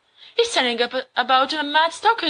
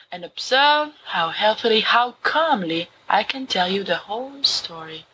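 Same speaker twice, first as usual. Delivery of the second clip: dramatic story reading. Acted. Remus reads Poe to his friends, dramatic gothic narration. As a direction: read Poe like a madman confessing.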